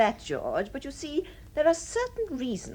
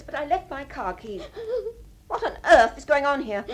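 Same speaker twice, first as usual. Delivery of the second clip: tearful. Acted. Sister returns, finds wife crying.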